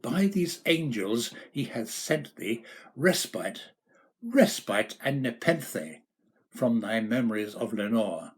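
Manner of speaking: pleading cry that fades toward Lenore; fervent plea dying down; cried out. Acted. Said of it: "I cried".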